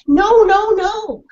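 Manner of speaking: high, yappy dog-speak; eager dog voice; dog's barking voice. Acted. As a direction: bark it out as the dog.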